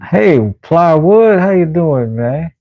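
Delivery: high, bright call to the cat; calling up to the cat on the stairs; cat greeting. Real, not acted.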